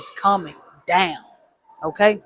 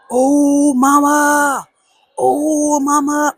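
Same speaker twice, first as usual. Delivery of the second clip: high, loud sing-song taunt calling mama; mocking tattletale; 7 semitones higher, 5 dB louder, much slower than usual. Brothers running out to tell mom, loud mocking sing-song. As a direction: tease like a kid tattling to mom.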